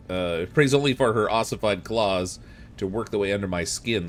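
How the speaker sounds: dramatic reading. Acted. Reads long journal passage dramatically.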